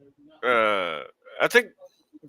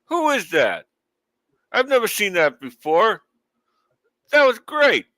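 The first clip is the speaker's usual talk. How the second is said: excited; 9 semitones higher, 4 dB louder than usual. Retold or imitated. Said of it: "I was like".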